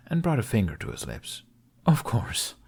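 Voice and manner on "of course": secretive whisper; conspiratorial whisper. Acted. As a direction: hush it like a secret. Secret, finger to lips.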